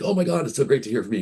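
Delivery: high, fast, gushing friend's voice; mock-gush how glad he is to hear from you; imitating an overjoyed old friend; thrilled greeting.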